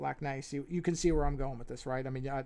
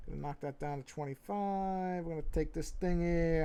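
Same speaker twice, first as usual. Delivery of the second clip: New York accent; 3 semitones higher than usual. Real, not acted. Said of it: "slipping into my New York accent".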